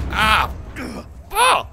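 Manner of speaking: sudden high startled oh; shocked cry. Real, not acted. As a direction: gasp it out in disbelief. Car suddenly wrecked.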